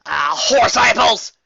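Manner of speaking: loud, slow country pony oath; Applejack, frustrated. Acted. Applejack curses her broken headset, loud and country. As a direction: curse it out folksy.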